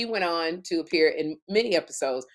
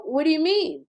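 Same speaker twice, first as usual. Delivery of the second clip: shocked; 7 semitones higher than usual. Retold or imitated. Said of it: "And I go".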